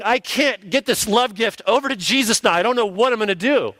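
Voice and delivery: preacher mocking the idea of a stuck God the Father; mock flustered God. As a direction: lampoon a helpless, frantic God. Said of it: "God the Father thinking".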